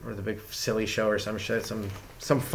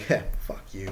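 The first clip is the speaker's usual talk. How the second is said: mock dismissive scoff, under the breath; low-key imitated defiance; fuck-you attitude; 4 semitones lower, 5 dB quieter than usual. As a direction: scoff it softly, as if to yourself. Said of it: "kind of attitude".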